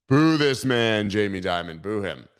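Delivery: loud, slow boo call; mock booing crowd call. Streamer telling chat to boo the bank CEO, slow loud call.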